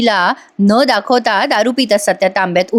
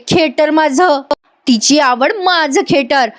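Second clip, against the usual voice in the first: Payal; 5 semitones higher, slower than usual. Retold or imitated. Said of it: "पायल म्हणते".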